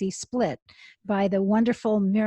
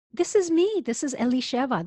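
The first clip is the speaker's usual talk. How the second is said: retold tearful cry, pitch jumping higher; through tears; 4 semitones higher than usual. Rabbi telling God through tears who she is, voice cracking high. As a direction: voice breaking on the first words. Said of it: "I said through my tears".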